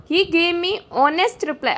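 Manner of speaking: slow, deliberate sentence reading; slow dictation read. Shown as a demonstration. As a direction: read it word by word for students. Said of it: "reading exam sentence slowly".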